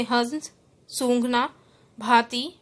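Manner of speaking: हंस, सूंघना, भांति with air through nose and mouth; separate, careful example words; nasalised vowels. Shown as a demonstration. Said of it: "वायु नाक व मुख दोनों से".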